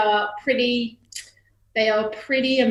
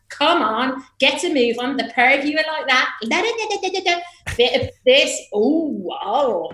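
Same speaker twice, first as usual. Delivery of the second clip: gossipy chatter; 4 semitones higher than usual. Retold or imitated. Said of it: "I've literally been like".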